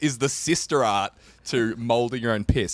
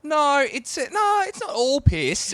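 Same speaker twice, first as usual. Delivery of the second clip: laughing; 12 semitones higher, 4 dB louder, slower than usual. Real, not acted. Answering through laughter.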